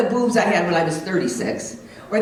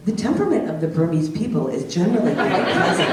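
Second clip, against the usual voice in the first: lightly voiced virtual assistant; a hint of automated-assistant politeness; 2 semitones lower than usual. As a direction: answer evenly like a digital helper. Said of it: "when he talks to Alexa".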